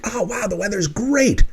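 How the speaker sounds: beaming mock delight; happy gushing. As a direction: swoon over the lovely weather. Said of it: "emotional reaction like".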